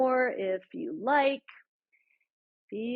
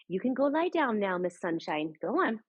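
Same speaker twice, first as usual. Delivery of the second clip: talking to the dog. Real, not acted.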